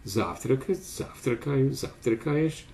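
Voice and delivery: "завтракать, завтракаю, завтракаешь" each stressed on the same first syllable; fixed stem stress. Shown as a demonstration. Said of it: "constant stress on a fixed stem syllable".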